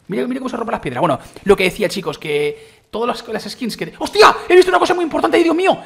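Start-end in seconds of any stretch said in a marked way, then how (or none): 4.0-5.8 high, loud excited yelling; excited shout. Real, not acted. Gamer spotting something big in game, shouting excitedly. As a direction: burst out at the discovery, laughing at the end.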